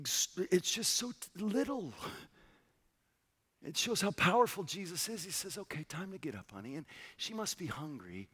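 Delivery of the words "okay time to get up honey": kind and soft. Retold or imitated. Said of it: "So kind".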